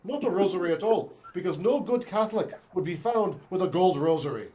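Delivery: bad stage Irish accent. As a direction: ham up an Irish lilt. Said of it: "do not do good, uh, Irish accents".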